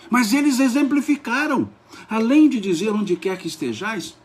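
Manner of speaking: high-pitched, impassioned preaching; tom eufórico. Real, not acted. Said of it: "eufórico". (pregação entusiasmada, com a voz elevada)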